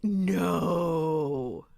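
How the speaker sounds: long drawn-out mock dismay; mock disbelief. Listener reacts to the Romulan reveal, mock disbelief. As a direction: stretch it out in playful disbelief.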